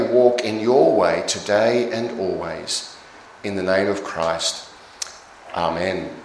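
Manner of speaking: measured, formal prayer with firm openings; public prayer. Real, not acted. Minister addressing Almighty God for the congregation, formal prayer. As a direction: lead a congregation in prayer, phrase by phrase.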